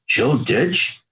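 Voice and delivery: mildly astonished recognition, slow and rising; retold surprise. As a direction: draw the name out as a disbelieving question.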